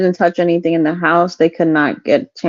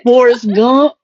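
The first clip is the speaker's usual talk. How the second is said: Forrest Gump impression; 5 semitones higher, 3 dB louder, slower than usual. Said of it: "It sounds like Forrest Gump".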